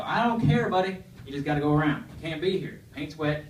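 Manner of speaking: loud dismissive redneck; redneck yell. Retold or imitated. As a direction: brush him off with a holler. Redneck dismisses him again.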